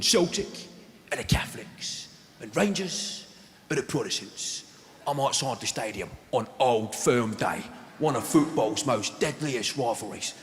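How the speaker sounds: a lightly done Danny Dyer to camera, slowing into fear at the end; Danny Dyer impression. Danny Dyer outside Ibrox talking to the camera, mock-serious. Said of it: "He's going, he's going".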